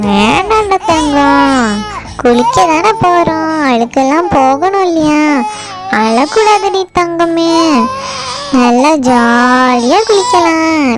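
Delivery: slow, drawn-out cooing; soothing baby talk. Acted. Grandma to a crying baby in the bath, soothing baby talk. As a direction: hush a crying baby with stretched endearments.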